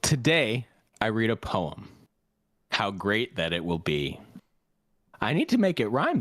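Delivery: mock-solemn poem recital; reciting a joke poem with pauses; reading own poem. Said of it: "so I'm gonna read you my poem".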